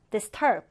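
"disturb" stressed on its second syllable, -TURB. Shown as a demonstration. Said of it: "두 번째 음절에 강세 두고".

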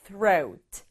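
throat said slowly, airy th, long o sound; teacher models throat with a breathy th. Shown as a demonstration. 영어 선생님이 throat 발음을 천천히 또박또박 시범. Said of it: "오에이가 만나서 오 소리예요".

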